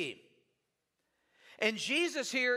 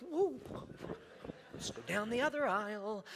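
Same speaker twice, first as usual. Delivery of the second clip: mock avoidance; 6 dB quieter than usual. Acted avoidance in store.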